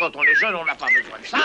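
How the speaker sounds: squeaky high voice. Acted. Shopkeeper mocks in squeaky voice.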